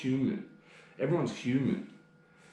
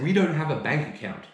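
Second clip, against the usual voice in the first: smug, higher put-on voice; mock company rep; 5 semitones higher, 4 dB louder than usual. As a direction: parody the rep lying politely. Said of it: "They said".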